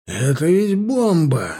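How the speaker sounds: alarmed, drawn-out exclamation, mildly roared. A narrator's reading. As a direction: roar it with restraint, stretching the words. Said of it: "взревел Милар". (сдержанный протяжный рёв)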